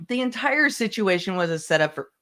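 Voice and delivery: talking through hiccups; hiccuping mid sentence. Real, not acted. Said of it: "I have the hiccups now".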